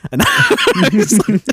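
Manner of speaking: high, loud, slow laughing; laughing hard. Real, not acted. Recalling the friend's retort, laughing high and loud. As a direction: break up laughing.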